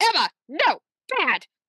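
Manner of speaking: put-on angry mother voice. Acting out how Mary Margaret talks to Emma, like a kid caught misbehaving, imitating Mary Margaret's angry mom voice. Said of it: "just has like an angry mom voice".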